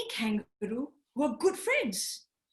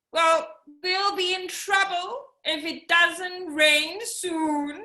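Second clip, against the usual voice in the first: worried friend; 6 semitones higher, 4 dB louder than usual. Acted. Tree kangaroo worried about drought.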